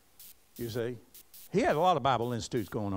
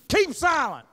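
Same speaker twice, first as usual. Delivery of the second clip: high, loud "Keep silent"; sharp command; 12 semitones higher, 7 dB louder than usual. Acted. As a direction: cut them off with a stern order. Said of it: "Same thing".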